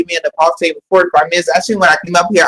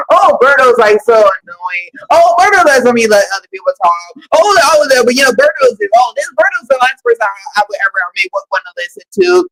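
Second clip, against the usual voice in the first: mocking commenters; 3 semitones higher than usual. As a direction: mimic a whiny hater. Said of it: "in the comments, think that".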